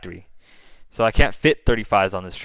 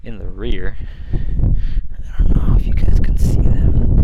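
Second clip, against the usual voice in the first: shouting over wind; 10 dB louder than usual. Real, not acted. Stepped outside into the wind.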